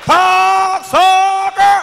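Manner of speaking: high, loud, drawn-out white man's curse; white person cussing. Retold or imitated. Imitating a white driver cut off in traffic, drawn-out loud curse. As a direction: stretch it out like an outraged white driver. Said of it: "call you a cocksucker like a white person".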